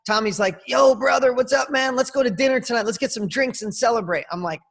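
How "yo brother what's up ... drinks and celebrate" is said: higher-pitched hyped-up rocker hello; lightly acted, high-pitched enthusiasm; excited greeting. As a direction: greet a new buddy with big party energy. Voicing rock star's excited greeting.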